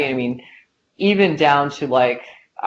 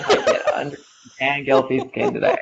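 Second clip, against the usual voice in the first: laughing. Retold or imitated. Mock quote of a scheming person.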